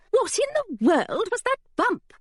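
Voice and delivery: high, swooping startled exclamation; high-pitched, affronted bookseller; indignant alarm. Acted. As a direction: exclaim it as if rudely jolted. Startled bookseller complains in story.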